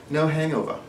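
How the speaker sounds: put-on a failed try at a British accent; slipping into a weak posh British accent; bad British accent. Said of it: "that was a terrible accent".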